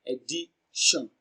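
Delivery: "addition" slowly split, the T said as sh. Shown as a demonstration. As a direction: draw out "addition" to show its sh sound. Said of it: "The letter T is pronounced as sh".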